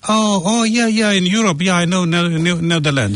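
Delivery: high, eager acted reply; excited misunderstanding. Refugee thinking he is bound for Europe, excited. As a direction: jump happily to the wrong conclusion. Acts out refugee mistaking the country.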